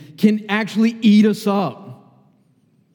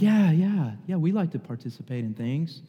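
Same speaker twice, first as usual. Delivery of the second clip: imitating eager students; 5 dB quieter than usual. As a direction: mimic keen kids, dropping away at the end. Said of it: "who talks like that?".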